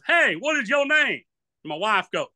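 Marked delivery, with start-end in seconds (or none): 0.0-1.2 higher, louder and slow, drawn-out call; comedian calling out. Retold or imitated. Comedian on cruise stage calling out to him again. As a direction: draw it out to get his attention. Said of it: "He goes".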